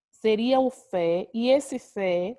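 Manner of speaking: "o fé, e esse fé" said slowly, leaning on "fé"; stress on the last syllable. Shown as a demonstration. Teacher to class, showing which syllable is strong, slow and stressed. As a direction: stretch out "fé" to show it is the stressed syllable. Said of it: "a minha última sílaba".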